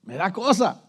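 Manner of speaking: lightly voiced old doctor, mumbled; a hint of Chapatín's fretful grumble. Preacher quoting Doctor Chapatín to the church, lightly mimicked. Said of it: "como dijo el doctor Chapatín".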